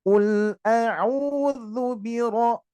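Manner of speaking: very slow chanted "biro" with a thick r; drawn-out tajwid recitation; slow recitation, heavy ro. Shown as a demonstration. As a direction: recite slowly with a full, heavy ro. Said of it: "ro-nya ditebalkan tafkhim".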